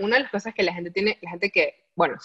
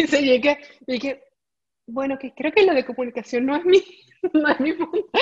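high, laughing, half-crying confession; rising laughter breaking into a mock wail; laughing self-mockery; 6 semitones higher than usual. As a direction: laugh it out at your own expense. Laughing retelling of her failure.

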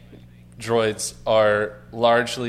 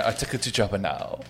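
Bib Fortuna voice; 5 dB quieter, faster than usual. Retold or imitated. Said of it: "not hear him saying".

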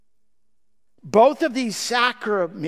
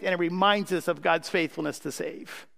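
ordinary talk, nothing marked

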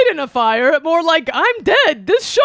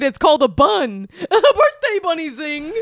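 boisterous birthday clown; 4 semitones lower, faster than usual. Acted. Bunny voice continues.

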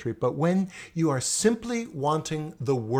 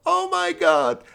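very high, loud cry of embarrassment; mortified outburst; 8 dB louder than usual. Retold or imitated. Student giving up mid-poem in front of class, mortified. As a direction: break off with a high, embarrassed yelp.

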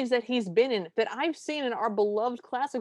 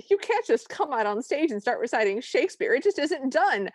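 mock indignation; 4 semitones higher than usual. Quoting the cameo's stage line.

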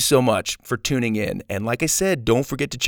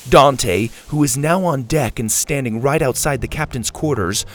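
story narration. A narrator's reading.

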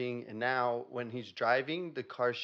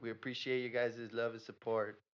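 radio host outro. Acted.

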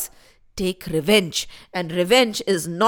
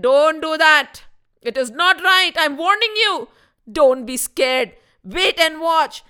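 guru warning; 4 semitones higher than usual. Acted. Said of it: "Guru Vashisht said".

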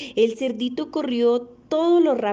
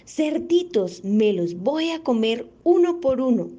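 shouted big bad wolf; 4 semitones higher than usual. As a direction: roar it out like a hungry wolf. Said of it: "les gritó". (grito de lobo feroz)

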